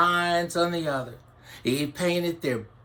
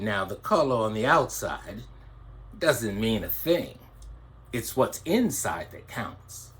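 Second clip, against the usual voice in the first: a lower, calm wise elder; 6 semitones lower than usual. Acted. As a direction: settle down low and teach it gently. Blackbird's wise answer.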